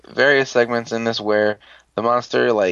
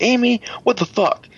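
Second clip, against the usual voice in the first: exasperated yell; 12 semitones higher than usual. Retold or imitated. Teammate yelling at Amy.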